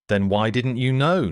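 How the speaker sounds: put-on loud, sharp child demand. A narrator's reading. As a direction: demand an answer. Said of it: "Noah demanded".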